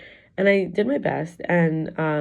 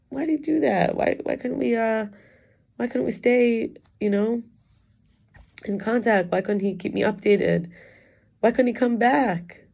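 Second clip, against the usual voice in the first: higher, pleading why-questions; tearful questions; 5 semitones higher than usual. Real, not acted. Asking why he stopped contacting her, tearful. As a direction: ask why through the hurt. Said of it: "Today I was crying about it".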